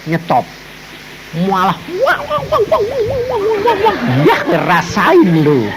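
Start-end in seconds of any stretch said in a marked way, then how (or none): 2.3-4.0 high ecstatic babble of wah; preacher mimicking tongues in a high excited babble; babbling in tongues. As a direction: imitate tongues pouring out, high pitched.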